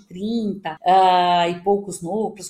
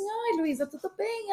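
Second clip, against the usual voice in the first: bright high, polite hello on the phone; sweet phone greeting; 10 semitones higher, 4 dB quieter than usual. Retold or imitated. Answering the boss's late call with a high greeting. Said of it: "Aí, eu falei assim".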